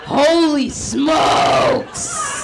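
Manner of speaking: very long, high mock shout; excitable white guy. White guy seeing her shirt come off, mock excited. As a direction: draw it out in hammed-up amazement. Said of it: "They're very excitable".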